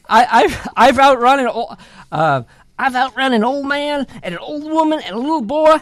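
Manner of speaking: high, quick storybook brag; high-pitched taunt from a runaway cake; boastful cake character. Acted. Voicing boastful Johnny Cake to bear.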